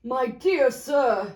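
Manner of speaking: slow heartfelt address; moved gentleman. Acted. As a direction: overcome with gratitude.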